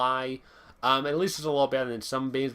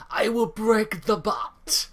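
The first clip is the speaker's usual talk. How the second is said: put-on slow, high Hispanic-accented villain growl; 8 semitones higher, 4 dB louder, much slower than usual. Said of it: "I can't do Hispanic accent".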